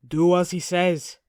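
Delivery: growling. A narrator's reading. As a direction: growl it firmly. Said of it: "Arnie growls".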